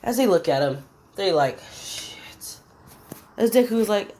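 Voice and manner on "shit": long, voiceless whispered swear; mock dread under the breath; hushed curse. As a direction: whisper it as the frightened lackeys. Lackeys' retold dread.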